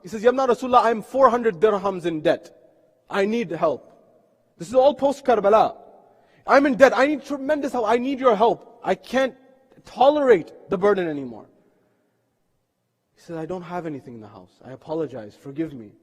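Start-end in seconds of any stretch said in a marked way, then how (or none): 0.2-11.5 loud, high retold appeal; urgent plea. Debtor pleads with the Imam. 13.4-15.9 low, hushed retold apology; soft apology. Imam apologises for having nothing.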